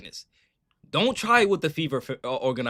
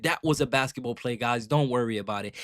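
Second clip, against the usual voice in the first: softer, unbothered mock of her reply; lightly imitated calm brush-off; Caitlin's calm reply; 6 semitones lower, 8 dB quieter than usual. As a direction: shrug it off softly, like nothing happened. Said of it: "bruised eye and said".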